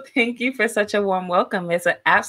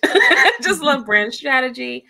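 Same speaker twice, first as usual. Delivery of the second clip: laughing; 4 semitones higher than usual. Real, not acted. Guest laughing about her passion.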